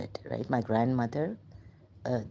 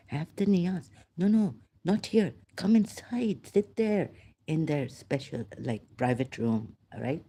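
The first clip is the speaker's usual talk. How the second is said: caretakers inviting. Retold or imitated. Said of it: "they were like".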